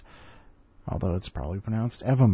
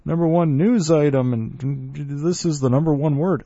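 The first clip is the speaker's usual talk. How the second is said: mock year-end countdown; 5 semitones higher than usual.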